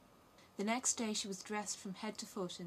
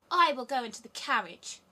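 put-on spoiled robber girl; 4 semitones higher, 10 dB louder than usual. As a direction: demand it like a spoiled brat. Robber girl insists on her will.

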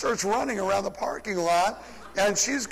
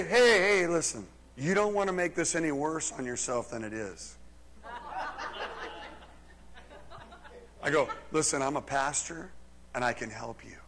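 calm talking-down; 2 semitones lower, 4 dB quieter than usual. Retold or imitated. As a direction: talk down an angry drunk. Calming a drunk attacker.

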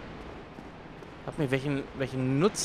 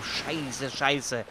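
cursing under breath; 2 semitones lower, 5 dB quieter than usual. Real, not acted. Quiet curse after.

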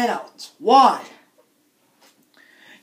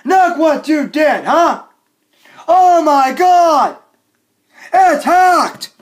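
raised-voice outraged rant; angry outburst; 3 semitones higher, 3 dB louder than usual. Acted. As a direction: scold the hackers loudly. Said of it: "I'm very angry".

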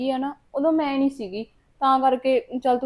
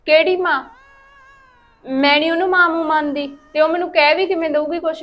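higher, louder scornful denial; indignant retort; 5 semitones higher, 4 dB louder than usual. Acted. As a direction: spit out the rejection of her. Daughter rejects her stepmother.

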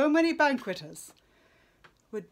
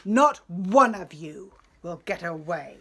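glaring refusal; 5 dB louder than usual. Acted. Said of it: "With a glare, he told him".

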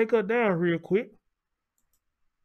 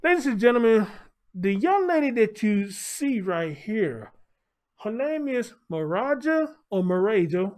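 dramatic announcement; 4 semitones higher than usual. Real, not acted.

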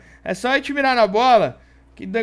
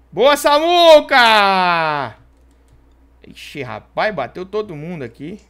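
excited cheering; 3 semitones higher, 5 dB louder than usual. Real, not acted. Celebrating the comeback.

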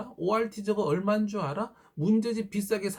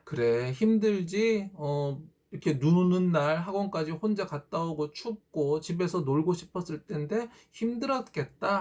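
comforting parent. Shown as a demonstration. Parent comforting a tired child after academy, gently. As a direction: soothe the child as if hugging. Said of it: "하고 안아주시고 토닥여주세요".

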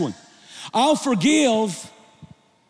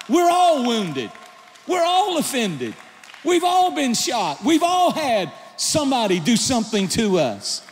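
captain's order; 2 semitones higher than usual. Retold or imitated. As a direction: bark it like a captain under fire. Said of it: "the answer of the captain is a classic".

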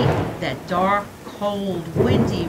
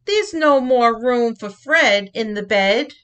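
high, louder stop; a loud fed-up father; Papa cries out; 4 semitones higher, 6 dB louder than usual. Acted. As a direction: call out as an exasperated dad. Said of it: "Papa cried".

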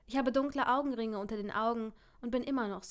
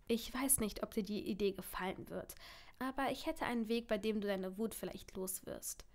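soft, careful suggestion; hushed, cautious reassurance; tentative offer; 6 dB quieter than usual. Acted. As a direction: offer the idea gently and quietly. Partner carefully offers an idea.

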